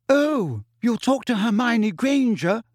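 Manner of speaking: shrill, jealous outburst; shrilly. A narrator's reading. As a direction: voice jumps high and sharp. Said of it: "she said shrilly".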